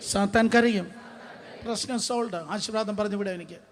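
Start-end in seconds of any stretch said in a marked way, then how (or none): 0.1-0.8 firm, slightly lifted declaration; raised voice. Shown as a demonstration. Preacher leading the congregation in "I will laugh", raised voice. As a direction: lead the chant with a raised voice. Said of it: "ശബ്ദമുയർത്തി പറഞ്ഞേ".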